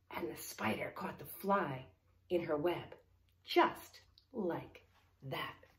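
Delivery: hushed storybook reveal, slowing at the end; story reading to children. Acted. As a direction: tell the climax with deliberate care. Reads story climax.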